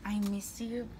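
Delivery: ordinary talk, nothing marked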